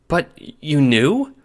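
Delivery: slow disbelieving question; stunned disbelief. A narrator's reading. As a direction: ask it slowly in disbelief. John stunned at Nana.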